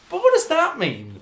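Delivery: mock bafflement, breaking into laughter; squeaky laughing disbelief; incredulous laughing question. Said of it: "and you're like".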